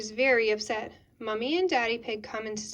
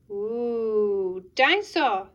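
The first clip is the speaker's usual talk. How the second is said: awed ooh into a loud exclamation; young child's delighted cry; excited little George; 5 dB louder, much slower than usual. Acted. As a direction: marvel like a toddler spotting a toy. George admiring a toy dinosaur.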